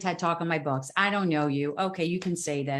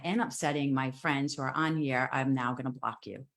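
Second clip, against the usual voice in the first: softer, measured and calmly firm; gentle firm reply; 4 semitones lower, 3 dB quieter than usual. Retold or imitated. Retelling her gentle written reply to a rude commenter, calm and soft. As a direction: set the boundary quietly, no heat. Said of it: "so I just gently wrote back".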